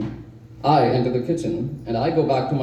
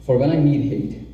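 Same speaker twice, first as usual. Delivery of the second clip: "need" stressed above the other words. Acted. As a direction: put the emphasis on "need". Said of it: "emphasis on need".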